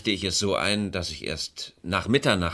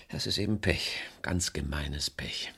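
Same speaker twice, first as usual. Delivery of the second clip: breathy whisper, slow and bitter; hushed, slow, rueful muttering; whispered aside; 3 semitones lower, 6 dB quieter than usual. Acted. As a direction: drop to a whisper on the bad luck. Bitter aside about bad luck.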